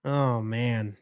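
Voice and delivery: low, soft, disappointed groan of words; dejected. Real, not acted. Bears fan watching another punt, dejected. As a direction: sink into quiet disappointment.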